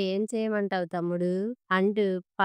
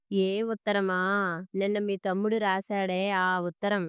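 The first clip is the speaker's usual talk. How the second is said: "ఆ ఉత్తరం" pressed home; pointedly spelling out "ఆ ఉత్తరం"; pointed emphasis. A narrator's reading. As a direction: lean on "ఆ ఉత్తరం". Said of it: "అన్నది ఒత్తి పలుకుతూ".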